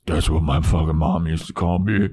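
laughing. Retold or imitated. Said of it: "And then Faith goes".

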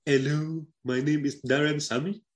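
lightly attempted Saint Lucian accent; Darren Sammy. Podcaster introducing himself as Darren Sammy, badly faked Saint Lucian accent. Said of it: "get a more accurate accent".

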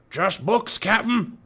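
high-pitched henchman call; shouted. A narrator's reading. Stinky reporting to Captain Bones, shouted henchman voice. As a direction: call back as a pirate lackey. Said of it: "shouted Stinky".

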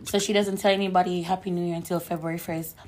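slightly hoarse from shouting; raspy voice. Real, not acted. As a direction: speak with a raspy, worn throat. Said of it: "if my voice is a little bit raspy".

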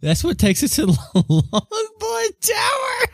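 high, squealing laughing shout. Real, not acted. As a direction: shriek it through laughter. Excited shout at table.

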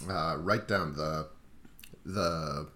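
strained, quiet after choking; choking on a drink. Real, not acted. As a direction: talk while still recovering from choking. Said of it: "just choking on my coffee".

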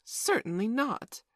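high, loud, drawn-out refusal; scandalized. A narrator's reading. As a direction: refuse slowly, as a scandalized mother. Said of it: "Wendy was scandalized".

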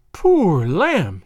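acted motherly sympathy; cooing pity. A narrator's reading. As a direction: fuss over a poor invalid. Lass pities the groaning lad.

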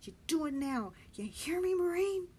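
urgent rallying shout; commanding Benny. Acted.

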